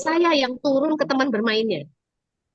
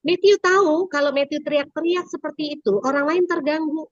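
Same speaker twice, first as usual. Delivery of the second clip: put-on teacher explaining to child; 5 semitones higher than usual. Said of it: "Nah, baru saya bilang".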